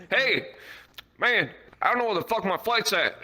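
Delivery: high-pitched imitation of an irate yell; mock yelling. Crackhead yells at airport security, mock yelling. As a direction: holler it like an agitated traveler. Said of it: "he starts yelling at T S A".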